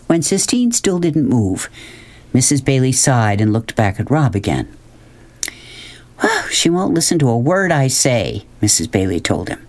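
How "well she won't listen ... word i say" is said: higher-pitched exasperated mother; lightly voiced mother's grievance; complaining mother. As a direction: complain about a child who won't listen.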